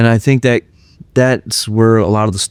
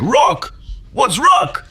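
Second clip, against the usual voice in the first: high-pitched baffled echo; Steranko impression; 4 dB quieter, much slower than usual. Comic artist baffled by a fan's hobby, puzzled high voice. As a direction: throw the word back in a high, puzzled put-on voice. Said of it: "And he's like".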